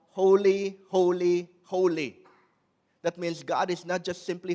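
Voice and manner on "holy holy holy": loud first holy, fading on each repeat; angels crying out. Retold or imitated. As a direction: call it out like angels, then let it settle. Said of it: "we hear the angels crying out".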